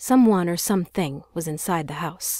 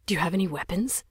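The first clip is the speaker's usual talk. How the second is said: mocking the scared question; 3 dB quieter, faster than usual. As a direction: parrot it mockingly. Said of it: "he mocked".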